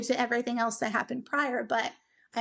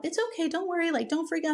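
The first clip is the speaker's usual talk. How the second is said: higher, light reassurance; reassuring; 4 semitones higher, faster than usual. Retold or imitated. Staff calming a nervous mother before surgery, higher reassuring voice. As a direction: soothe a nervous patient in a higher voice.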